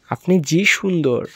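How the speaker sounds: Sylheti compliment with weight on আপনি; Sylheti dialect. Shown as a demonstration. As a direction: lean into the Sylheti lilt. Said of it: "সিলেটি ভাষা".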